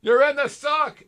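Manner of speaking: hammed-up tough drill-sergeant bark; gung-ho Marine voice. Macho Marines-style boast.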